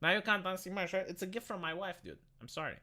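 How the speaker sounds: tinny mic with fan noise; boxed-in metallic audio; tin can sound. Real, not acted. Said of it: "I'm in a tin can with a fan".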